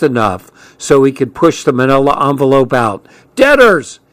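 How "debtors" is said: high, loud contemptuous burst; spat out. A narrator's reading. Man flinging insult from car window, spat out. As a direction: spit the word out as an insult. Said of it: "he spat".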